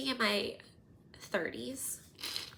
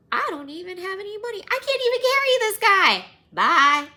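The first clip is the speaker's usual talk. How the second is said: frantic excuses; 8 semitones higher, 9 dB louder than usual. Retold or imitated. Passerby dodging the bleeding man, rising into frantic excuses. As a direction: pile up excuses until it bursts into a shrill bye.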